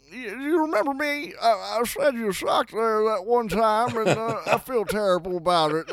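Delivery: high, loud squeaky guy apologizing; put-on character voice. Caller voicing a second guy who says sorry to the hosts, in a high squeaky voice. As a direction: pitch way up into a goofy squeaky character. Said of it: "somebody else that wants to come in here".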